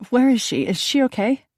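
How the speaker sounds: pressing for news, a touch of alarm; anxious. Acted. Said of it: "I asked anxiously".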